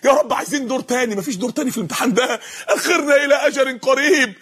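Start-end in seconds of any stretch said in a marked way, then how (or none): 0.0-1.2 raised-pitch acted supplication; pleading. Sinners begging God for a delay, pleading. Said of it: "شايفين الاستغاثة؟". 2.7-4.3 slightly raised acted begging; pleading. Sinners begging God to postpone punishment, pleading. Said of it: "شايفين الاستغاثة؟".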